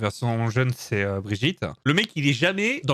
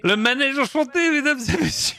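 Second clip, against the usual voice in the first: announcer hype; 10 semitones higher than usual. Real, not acted. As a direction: announce it like a showman. Hyping up the toy like an announcer.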